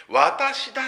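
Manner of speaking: high, loud 私だ punched; 私だ said as a bold declaration; emphatic I am. Shown as a demonstration. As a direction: lift 私だ up and land it hard. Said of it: "っていう表現".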